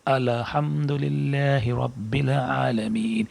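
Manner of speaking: الحمدللہ رب العالمین with ال stretched into a doubled lam; slow recitation with an added l; wrong extra lam. Shown as a demonstration. Teacher repeats the mistaken version, slow recitation. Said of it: "جو میں نے پہلی بار پڑھا".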